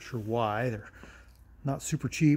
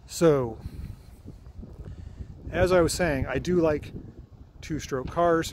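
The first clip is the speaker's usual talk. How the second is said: shouting over wind; 3 semitones higher than usual. Real, not acted. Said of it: "Hope you can hear me over the wind".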